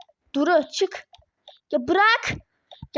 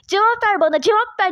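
angry demand; 3 semitones higher, 3 dB louder than usual. Acted. Duru angrily demands answers from child.

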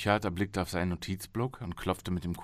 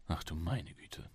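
mild inner groan; 8 dB quieter, slower than usual. Acted. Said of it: "dachte Travis".

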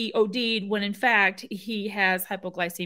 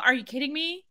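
incredulous; 5 semitones higher than usual. Real, not acted. Outraged reaction.

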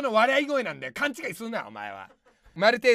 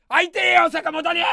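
comic longing; 5 semitones higher, 8 dB louder than usual. Acted. Misses absent partner Sakamoto.

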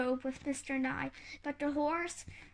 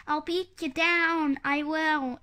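louder, punchy threat; raised-voice story yell; angry yell; 2 semitones higher, 6 dB louder than usual. A narrator's reading. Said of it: "yelled Mister Nye".

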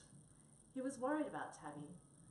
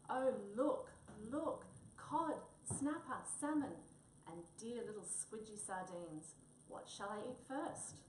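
excited; 2 semitones higher, 4 dB louder than usual. Acted. Cat finds fish in icebox.

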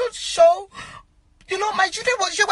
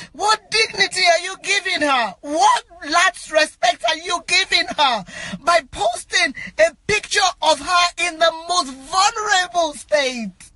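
normal talking voice

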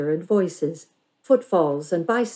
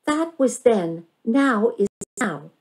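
a touch higher, firm and stubborn; scowling retort; 6 semitones higher than usual. A narrator's reading. Bandit scowls at her cousin, firm and stubborn. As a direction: insist the past is past, a little sulky. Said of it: "Bandit scowled".

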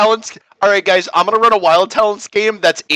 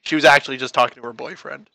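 quick whisper; hushed, hurried comment; whispered aside; 11 semitones lower, 6 dB quieter than usual. Pretend.

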